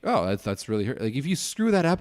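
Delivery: ordinary delivery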